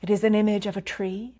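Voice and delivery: calm meditation guide with long pauses; unhurried phrases, each left to settle in silence; guided meditation. Real, not acted. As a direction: lead them gently inward, pausing between phrases.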